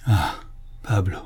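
sighed, falling exclamation; tender, moved. Acted. Master to his majordomo after the meal, deeply moved. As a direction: call the name with welling emotion. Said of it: "s'écria d'une voix attendrie".

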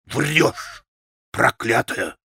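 contained furious cry, rolled R; завопил. A narrator's reading. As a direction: hurl the accusation with restrained fury. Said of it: "завопил Митя". (сдержанно-яростный вопль)

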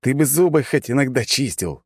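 high-pitched taken-aback jibe; stunned retort. A narrator's reading. Hero stunned by dendroid's breath, taken-aback retort. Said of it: "обалдев от яркого смоленистого аромата".

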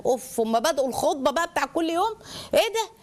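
huffy, fed-up muttered asides; bored child. Acted. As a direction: tune out a parent's lecture with impatient sighs. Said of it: "الملل ده".

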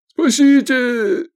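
high, loud, slow howl for help; wailing for help. Acted. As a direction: cry out in panic. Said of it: "заголосил мужик".

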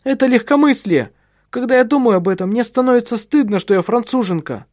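the wife heatedly rejects her husband's praise of French women, loud and high; heated exclamation. Acted. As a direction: rush it out, ashamed and indignant. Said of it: "воскликнула она".

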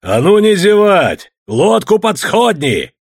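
slow, loud, high command; menacing shout. A narrator's reading. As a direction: bark the order threateningly. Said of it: "грозно закричал он".

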